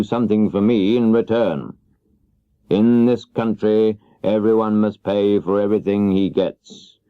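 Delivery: lightly voiced wizard laying down terms; a hint of the stern great Oz; a stern wizard setting a price, lightly voiced. Oz gives his terms.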